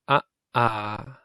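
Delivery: Ah short, ah held long; vowel pair short and long; short then long ah. Shown as a demonstration. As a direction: clip the first Ah, stretch the second ah. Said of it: "You just say the ah longer than you say the ah".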